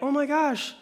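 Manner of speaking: high, slow, syrupy gasp; sing-song fake delight; mock gushing townsfolk. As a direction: play the cooing women. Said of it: "where they're like".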